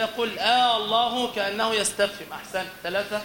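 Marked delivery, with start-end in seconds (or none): 0.4-1.3 آه الله with the first A held long, like a question; stretched opening alif. Shown as a demonstration. Teacher shows an error sounding like a question, long first alif. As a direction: lengthen the opening vowel of الله. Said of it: "مد ألف الوصل في البداية".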